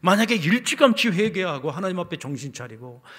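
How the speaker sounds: loud, high-pitched sermon delivery; impassioned preaching. Real, not acted. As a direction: drive the lament home at full force. Preaches at full force.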